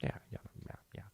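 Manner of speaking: breathy whispered yeahs; Pesci whisper. Retold or imitated. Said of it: "Pesci's just like".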